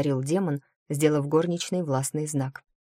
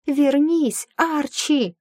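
loud, high call after a runaway cat; 10 semitones higher, 5 dB louder, much slower than usual. A narrator's reading. Heroine shouts after the fleeing cat, loud. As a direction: shout the cat's name to stop him.

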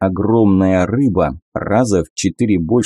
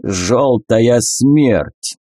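very slow booming ape call; gorilla voice; 3 semitones higher, much slower than usual. Acted. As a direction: intone it slowly like a great ape. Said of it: "заговорила горилла".

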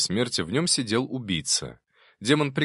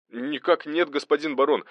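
high, chipper denial; lightly breezy, high-pitched report; cheerful; 7 semitones higher than usual. A narrator's reading. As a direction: deny it merrily to your superior. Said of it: "Голос Арсения звучал весело".

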